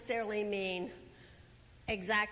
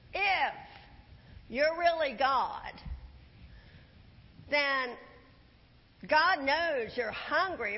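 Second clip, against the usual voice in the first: taunting devil; 4 dB louder, slower than usual. Retold or imitated. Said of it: "and he says".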